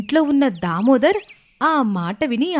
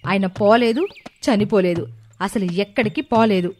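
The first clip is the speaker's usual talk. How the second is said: lower, cross retort; angry wife; 4 semitones lower than usual. Acted. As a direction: snap back at the fools. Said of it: "కోపం వచ్చింది".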